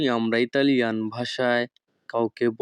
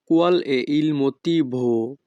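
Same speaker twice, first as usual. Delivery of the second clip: each Italian word spoken slowly and clearly; teacher modelling Italian for learners, very slow; slow demo; much slower than usual. Shown as a demonstration. Bengali teacher models Italian phrase for students, slow and careful. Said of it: "Italian phrase demo".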